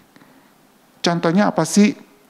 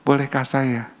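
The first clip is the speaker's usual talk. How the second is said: polite, softer request; 4 semitones lower, 4 dB quieter than usual. Shown as a demonstration. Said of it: "Jangan main nyelonong".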